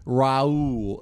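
drawn-out mock French accent; a passing try at a French accent; John Malkovich. Shown as a demonstration. Friend attempts the actor's name-saying, mock French accent. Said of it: "say Raoul in a French accent".

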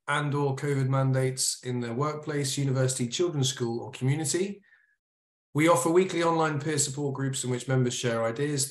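formal, measured announcement in a telephone voice. Real, not acted. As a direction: switch into an official blurb-reading voice. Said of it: "you get your telephone voice on".

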